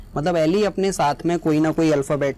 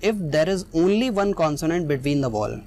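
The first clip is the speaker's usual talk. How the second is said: each word read out slowly and clearly; teacher reads the rule slowly for students to copy; slow dictation; much slower than usual. Shown as a demonstration. Slowly dictating the definition to the class. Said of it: "तो वही ये definition हमें बताती है".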